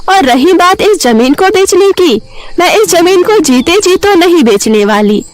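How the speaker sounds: high, firm, affronted dismissal; indignant refusal. Acted. Savitri refuses to sell and orders them out, indignant. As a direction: refuse hotly and send them packing. Old woman orders the men out.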